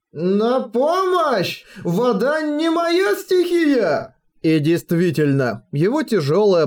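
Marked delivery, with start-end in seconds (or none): 0.1-4.2 high, very slow bubbling wail; gurgling wail. Acted. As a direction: wail for help as if underwater. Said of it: "булькающий голос, похожий скорее на вопль".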